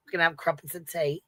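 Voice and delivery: laughing through a posh British line; laughing British accent. Pretend. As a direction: giggle while doing the British accent. Says it again, laughing.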